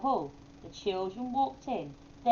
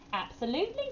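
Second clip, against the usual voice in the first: smiling; 11 semitones higher than usual. A narrator's reading. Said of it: "smiled Wise, Wise Owl".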